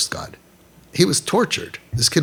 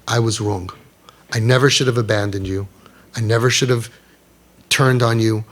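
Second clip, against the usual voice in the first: lower-pitched, sincere admission with pauses; earnest apology; 3 semitones lower than usual. Acted. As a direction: apologise gently to your child, phrase by phrase. Voicing parent apologising to child.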